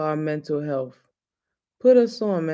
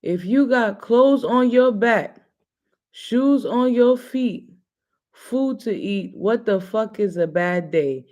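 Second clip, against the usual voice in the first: imitating Amber. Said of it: "She would say this to me all the time".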